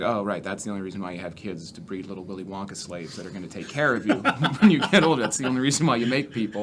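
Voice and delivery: fast, laughing sarcasm; mocking the question with a laugh; sarcastic mockery. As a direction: rattle off the sarcastic retort while cracking up. Sarcastic reply in stand-up bit.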